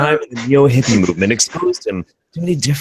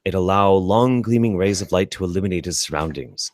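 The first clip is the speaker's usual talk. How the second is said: narrator voice. Acted. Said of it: "doing your best narrator voice".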